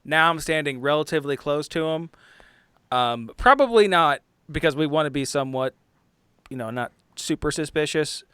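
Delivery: usual speaking voice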